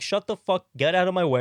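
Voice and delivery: a touch of an irate cop dad; fed-up father. Retold or imitated. Father dismisses daughter angrily.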